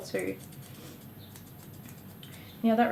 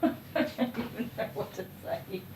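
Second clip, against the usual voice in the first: laughing in disbelief; 5 dB quieter than usual. Real, not acted.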